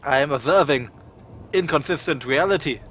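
lightly voiced, formal detached scientist; a hint of a cold lab researcher; mad scientist. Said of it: "I am speaking like a mad scientist".

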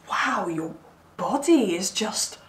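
halting, emphatic mock amazement; stuttering awe. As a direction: act lightly lost for words, pausing between phrases. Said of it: "like, stuttering 'cause they're just".

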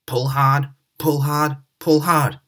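rhythmic puffing, straining; puffing with effort. Acted. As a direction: push each word out like steam. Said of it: "puffed Edward".

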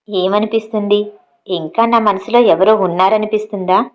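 lightly voiced husband asking with love; lovingly. Husband gazing into his wife's eyes, lightly tender. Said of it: "అంటూ ప్రేమగా తార కళ్ళల్లోకి చూస్తూ".

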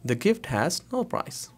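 very slow, word by word, rising on no; slow teaching read. Shown as a demonstration. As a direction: spell it out slowly for the class. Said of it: "slow translation for learners". (बहुत धीरे पढ़ाते हुए)

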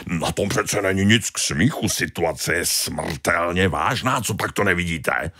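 a touch of hurt pride; offended Tony. Acted. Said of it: "urazil se Tony". (mírně dotčený Tony)

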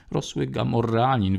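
usual speaking voice

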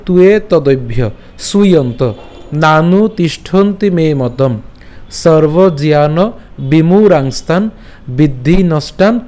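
slow, measured Sanskrit verse recitation; শ্লোক recitation. Shown as a demonstration. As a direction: recite each quarter slowly, drawing out long vowels. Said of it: "আমি যেভাবে বলছি এভাবে করে". (ধীরে টেনে টেনে শ্লোক পাঠ)

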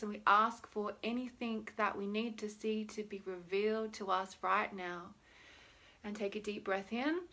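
soft, soothing guidance; calm visualisation voice; guided meditation. Shown as a demonstration. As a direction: lead them gently into the breath and body.

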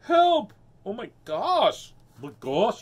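loud, high storybook cry; hammed-up high alarm. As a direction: shout an acted cry for help. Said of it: "suddenly heard a cry".

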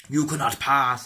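a slow, booming hint of Gandalf; mock wizard. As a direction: play the wizard blocking the bridge, lightly. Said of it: "It's kinda like Wizard".

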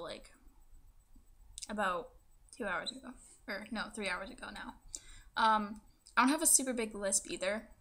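speaking with a fresh tongue piercing. Real, not acted. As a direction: talk around a swollen pierced tongue. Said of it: "this is gonna be my tongue piercing video".

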